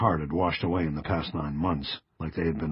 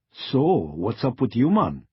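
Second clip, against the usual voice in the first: light Jamaican patter, a touch higher; Jamaican accent; 5 semitones higher, 3 dB louder than usual. Acted. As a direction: slip into a Jamaican lilt for a friendly hello. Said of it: "she would turn on the accent and the patter".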